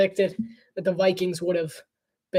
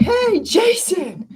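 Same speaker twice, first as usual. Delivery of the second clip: higher, slow drawn-out hey Jason; calling out; 11 semitones higher, 3 dB louder, much slower than usual. Retold or imitated. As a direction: call out across the room to Jason. Calling out to the server.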